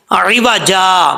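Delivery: slow, drawn-out recitation; slow recitation demo. Shown as a demonstration. Teacher modelling the pause word. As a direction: recite عوجا slowly. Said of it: "teacher reciting the example word".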